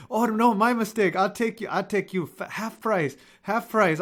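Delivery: high, eager mock cabbie backpedalling; mimicking cab driver. Retelling the cabbie offering half price, high mock voice. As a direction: pitch it up like a driver scrambling to fix it. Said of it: "And he was like".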